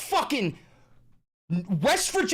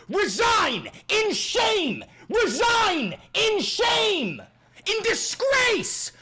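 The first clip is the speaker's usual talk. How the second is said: slow angry shout; 3 semitones higher, much slower than usual. Real, not acted. Shouting demand at governor.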